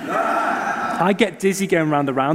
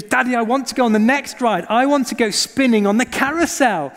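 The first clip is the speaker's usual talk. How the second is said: put-on excited child; 6 semitones higher than usual. Child voiced in sermon story.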